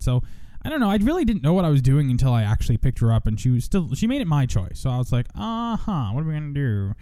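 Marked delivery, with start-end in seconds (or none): 5.3-6.9 put-on old voice. Radio host showing off a character, old voice. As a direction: swoop up high in a silly old voice. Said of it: "that's my old voice".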